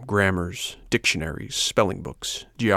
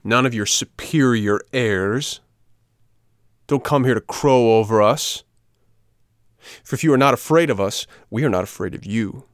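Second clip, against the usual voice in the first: emphatic schoolboy threat, a touch raised; confrontational challenge; 4 dB louder than usual. Acted. Biggest boy confronts puppet, mildly threatening. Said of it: "confronting him".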